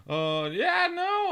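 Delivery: high, put-on Southern twang; southern accent. Caller faking a Southern accent on a support call, southern accent. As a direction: slip back into the fake Southern drawl. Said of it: "in this southern accent".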